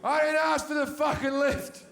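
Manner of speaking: high, loud mock outrage; laughing indignant shout at the driver; indignant retort. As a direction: throw her own complaint back at her, laughing. Acted argument with the driver.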